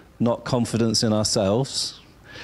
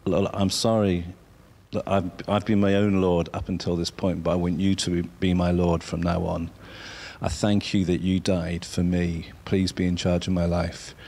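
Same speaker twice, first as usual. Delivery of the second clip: sincere prayer; 5 semitones lower than usual. Shown as a demonstration. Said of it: "you can say".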